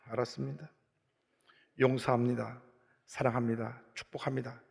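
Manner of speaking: low, subdued mock obedience; soft, low recital of forgiveness; reluctant submission. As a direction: give in quietly to God, reenacting it. Acted reluctant submission to God.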